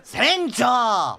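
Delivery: shocked objection to the captain; alarmed protest. Acted. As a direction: call out in dismay. Crewman protests captain's refusal.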